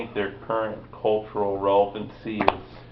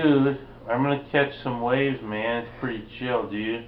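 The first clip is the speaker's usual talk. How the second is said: put-on California surfer accent. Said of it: "the California accent".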